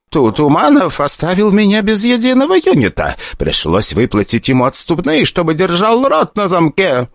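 high stammering near-sobbing; tearful director justifying himself; tearful pleading. Acted. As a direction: hold back tears while explaining. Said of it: "на его глазах выступили слёзы".

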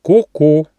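high bright cuckoo call, ku-ku. Acted. Cuckoo clock calling in the morning, high cuckoo.

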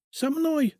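can't believe you're asking me; a house spirit astonished to be asked for advice; amazed. A narrator's reading. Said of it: "изумился Фома".

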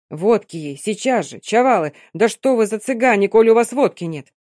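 loud urgent call for vodka. Acted. Old Gypsy shouts to the crowd, loud. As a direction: bellow at the crowd to fetch it.

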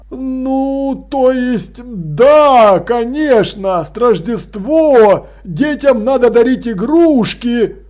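выше, сбивчиво и медленнее; поспешно выкручивается; растерянно поправляется. Acted. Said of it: "Быстро поправился он". (Крохобор растерянно поправляется перед людьми)

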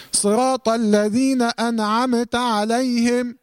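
slow chanted verse with أنعمت as "an-a-ame-ta"; exaggerated recitation mistake. Shown as a demonstration. Teacher mimics those who overdo it, both still letters voweled in أنعمت. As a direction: add vowels after both nun and mim of أنعمت. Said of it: "من يبالغ فيحرك النون ويحرك".

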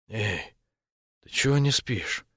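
just woke up, murmur it sleepily; sleepy voice. A narrator's reading. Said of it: "спросил сонным голосом". (сонным голосом)

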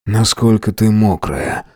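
slow, husky, ingratiating rasp; husky insinuating. Acted. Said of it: "Вкрадчиво хриплю".

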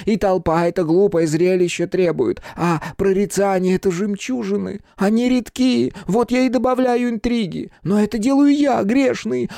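высокий взволнованный голос фамильяра; горячо защищай свою госпожу, тонко; пылкий фамильяр. Acted. Фамильяр страстно защищает пифию. (фамильяр в негодовании, высоким голосом)

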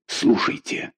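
whispered urgent command to listen. A narrator's reading. Malikan whispers to Pibrac to listen for hoofbeats. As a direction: breathe it, straining to hear.

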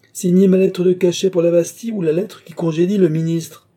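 high, loud imperious demand; forceful ultimatum. A narrator's reading. Countess forcing the king to choose, imperious.

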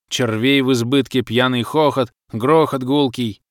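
lightly voiced trance, rhythmic verse delivery; entranced fisherman reciting. Swaying fisherman recalls foggy visions to the narrator, entranced recitation. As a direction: recite visions in measured, emphatic phrases.

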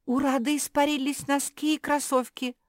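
high, loud squealed exclamation. A narrator's reading. Kuki sees Rada's socks and sneakers gone, squealing. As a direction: squeal it out at the top of the voice. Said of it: "взвизгнула Куки".

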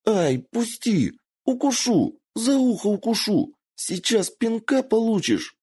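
put-on high squealing fox girl, laughing as she kicks; squealing with laughter. A narrator's reading. Kitsune wrestled by Michiyo, squealing and giggling. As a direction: squeal and giggle while fighting off the hold. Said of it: "с визгом, с хохотом брыкалась".

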